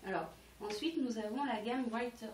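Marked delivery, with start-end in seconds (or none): 1.9-2.3 Brighter said with a light English accent. Shown as a demonstration. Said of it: "oh, avec mon accent anglais". (accent anglais léger sur Brighter)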